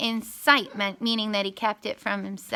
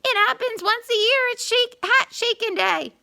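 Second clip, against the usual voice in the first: frantic bluff; 12 semitones higher, 4 dB louder than usual. A narrator's reading. Anansi bluffs in pain.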